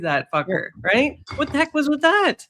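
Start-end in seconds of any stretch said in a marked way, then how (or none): 1.4-2.5 higher Canadian-accented rant. Real, not acted. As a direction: let the Canadian accent slip out. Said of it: "my Canadian accent comes out".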